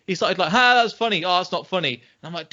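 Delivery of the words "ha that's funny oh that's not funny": higher-pitched mock heckle; imitated heckling. Podcaster imitates a drinker at a stand-up show, heckling. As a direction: call out like a heckler. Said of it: "he started heckling".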